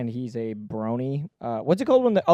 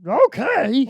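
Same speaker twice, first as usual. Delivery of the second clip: pitched-up resigned okay; high mock okay; 11 semitones higher, 5 dB louder than usual. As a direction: squeak it out. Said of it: "she goes".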